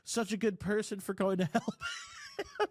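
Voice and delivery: a hint of a sweet encouraging girl; girlfriend voice. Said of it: "she's like".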